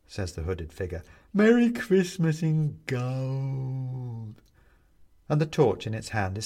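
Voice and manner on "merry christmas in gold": hungry gleeful skeleton; with relish. A narrator's reading. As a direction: relish every word. Figure savouring.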